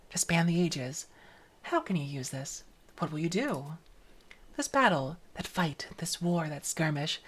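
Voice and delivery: hushed, musing voice with whispered asides; mysterious narrator. Acted. Streamer reading the game's opening monologue, softly musing. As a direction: ponder aloud like an ancient guiding spirit.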